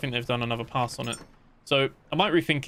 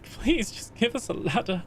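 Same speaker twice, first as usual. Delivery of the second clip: high, slow, hammed-up pleading; mock begging; 9 semitones higher than usual. Begging the developer for a ladder, high mock plea. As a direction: plead like you're on your knees. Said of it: "I was on my knees groveling".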